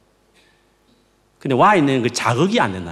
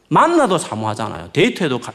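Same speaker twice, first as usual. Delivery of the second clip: normal talking voice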